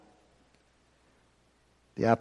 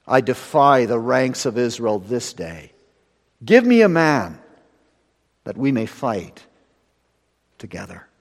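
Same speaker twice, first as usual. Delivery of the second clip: Goliath's taunt; 6 dB louder than usual. Acted. Preacher voicing Goliath's challenge.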